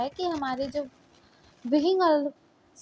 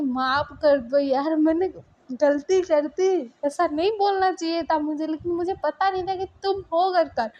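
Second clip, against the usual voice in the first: pleading apology; 4 semitones higher, 3 dB louder than usual. Acted. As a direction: beg her to forgive you. Boyfriend begging forgiveness. (ऊँची आवाज़ में गिड़गिड़ाते हुए माफ़ी)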